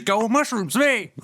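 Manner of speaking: high-pitched mock college cheer girl; exaggerated girly school-spirit intro. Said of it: "these girls that are going to college".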